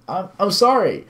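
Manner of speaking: high, stammered tearful apology; choked by tears. Acted. Crying visitor apologises to scolding woman, choked by tears. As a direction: act close to crying. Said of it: "My voice was choked by tears".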